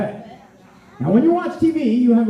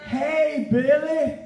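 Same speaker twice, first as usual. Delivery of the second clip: call out; 5 semitones higher, much slower than usual. Shown as a demonstration. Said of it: "everybody go".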